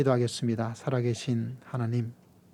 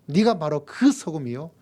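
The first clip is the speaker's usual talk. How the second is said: 네가 바로 그 소금이요 called out loud with a rising 그; loud proclamation; 4 semitones higher, 6 dB louder than usual. Shown as a demonstration. Preacher crying out to the congregation, louder. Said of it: "contrast with whisper".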